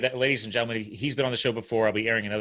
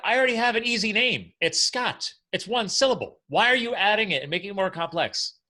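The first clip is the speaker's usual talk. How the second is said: much higher, incredulous protest; mock exasperated; 11 semitones higher, 4 dB louder than usual. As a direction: complain about nicknames with playful outrage. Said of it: "I'm like".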